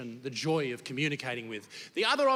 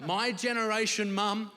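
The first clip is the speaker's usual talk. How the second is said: laughing; 6 semitones higher than usual. Retold or imitated. Laughing through retold comeback.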